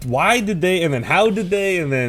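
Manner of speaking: high-pitched, stumbling disbelief; incredulous questioning. Retold or imitated. Re-enacts disbelief at the ending.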